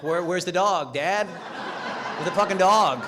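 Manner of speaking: loud accusing demand, last line drawn out; angry demand. Acted. Drunk son accusing dad over the missing dog, angry.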